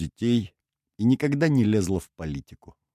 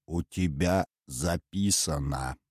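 low, slow, softer restrained anger; forced out, seething; 4 semitones lower, 5 dB quieter, slower than usual. A narrator's reading. Nestor to the forgetful radioman, seething through his teeth. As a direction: squeeze it out slowly, holding anger in. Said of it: "процедил Дерфунье".

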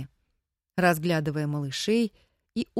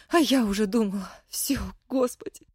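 breathless whisper; 3 semitones higher than usual. Acted. Wife confesses her fear.

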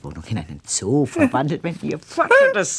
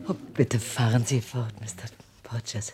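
whispered, urging him on; eager whisper; 3 semitones lower, 6 dB quieter than usual. Acted. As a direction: Duchess urging the palmist to continue, whispered. Duchess urging the palmist on.

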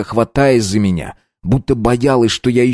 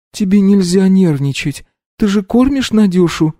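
higher, tearful mother consoling; tearful comfort; 10 semitones higher than usual. A narrator's reading. Mother consoles Polina while crying herself. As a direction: hold back tears as you comfort her.

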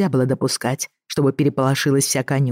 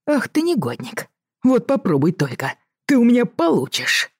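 scolding; 8 semitones higher than usual. Acted. Groom scolds the boy.

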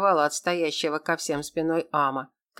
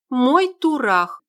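higher, louder, slow proud claim; loud declaration; 6 semitones higher, 5 dB louder, much slower than usual. A narrator's reading. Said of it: "громко заявила я".

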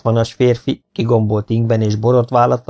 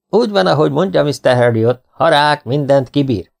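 enthusiastic; 5 semitones higher than usual. A narrator's reading. The couple agree with the vet, enthusiastic. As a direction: agree gushingly. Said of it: "lelkendezve fejezték ki".

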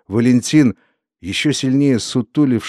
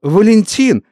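high, loud cry of the name; shouted name; 10 semitones higher, 5 dB louder than usual. A narrator's reading. Neighbour woman crying Valentin's name to Ulya, high and loud. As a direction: cry the name out then faint. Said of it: "крикнула".

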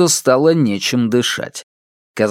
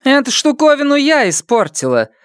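contemptuous; 13 semitones higher than usual. Acted. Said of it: "презрительно бросила старшая".

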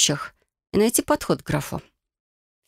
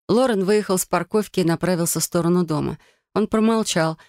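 ordinary delivery, nothing marked

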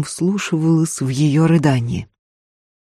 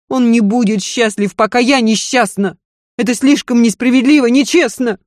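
bitter desperate lady; 7 semitones higher than usual. Acted. Lady rants to her maid about her seducers, bitter. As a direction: spit out her contempt for the men. Lidia furious at husband.

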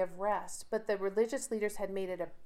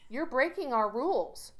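higher-pitched imitation of scolding; mock rebuke; 4 semitones higher than usual. Synagogue leader rebuking the crowd over Sabbath healing, mock scolding. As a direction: imitate an indignant leader telling people off. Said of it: "he rebukes the crowd".

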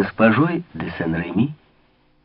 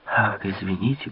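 respectful; 2 semitones lower, 7 dB quieter than usual. Acted. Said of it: "почтительно ответил Маликорн".

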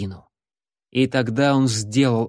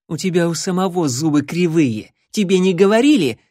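hissed; 6 semitones higher, 4 dB louder than usual. Acted. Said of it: "прошипела она".

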